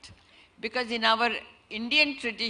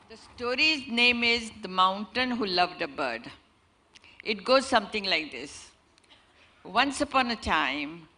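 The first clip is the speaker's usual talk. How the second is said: storytelling narration. A narrator's reading. Storyteller telling an audience a fable, expressive narration. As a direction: draw the listeners into a fable.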